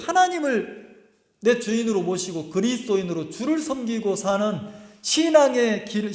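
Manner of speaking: ordinary talk, nothing marked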